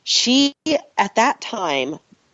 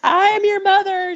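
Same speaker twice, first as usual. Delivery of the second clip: much higher, hammed-up grand declaration; theatrical mock announcement; mock solemn mother; 3 dB louder than usual. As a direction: play it like a dramatic reveal. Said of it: "I'm your mommy".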